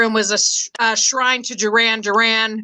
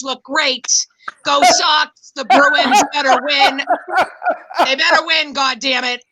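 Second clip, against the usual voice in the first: put-on Boston accent. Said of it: "respectful people in business have this Boston accent".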